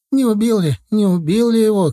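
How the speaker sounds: high, loud panicked mother's cry; mother screaming in panic at the fight; hysterical cry. Acted. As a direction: shriek it out in terror for her son. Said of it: "кричала истерически".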